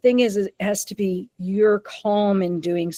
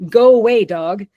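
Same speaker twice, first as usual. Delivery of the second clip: sudden loud fearful cry, pitched up; scared shout; 2 semitones higher, 6 dB louder than usual. Retold or imitated. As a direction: yell it like a frightened dog shooing off a threat. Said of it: "Or fear".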